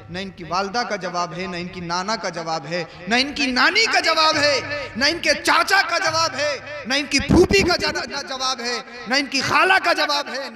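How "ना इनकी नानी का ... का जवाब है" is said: insistent, ringing litany; rousing preaching. Real, not acted. Preacher praising the grandsons' matchless family, rousing preaching. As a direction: punch each relative in a repeated cadence. Rising rhetorical list of relatives.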